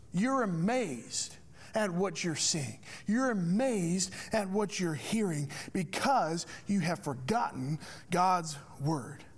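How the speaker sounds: slow, measured rebuke, lightly acted; Jesus. Jesus telling the scribes and priests, slow retold rebuke. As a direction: weigh out each phrase slowly, as a mild retold reproof. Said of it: "Essentially, Jesus tells the scribes".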